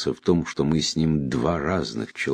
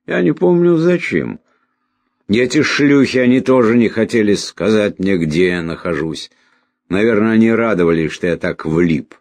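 higher, louder voice of a confused man; agitated dying stranger; 6 semitones higher, 7 dB louder than usual. Acted. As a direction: play a bewildered man complaining in agitation.

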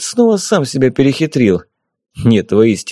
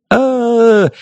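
roaring crowd cheer; 12 semitones higher than usual. A narrator's reading. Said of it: "заревела куча мужских глоток".

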